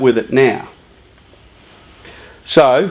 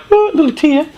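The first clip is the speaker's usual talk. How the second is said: mock tearful; 12 semitones higher, faster than usual. Mocking showing emotion.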